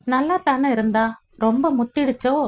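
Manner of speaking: a touch of nervous disbelief; husband muttering worriedly at his wife's odd behaviour; mildly alarmed. Acted. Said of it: "அவன் பயந்து".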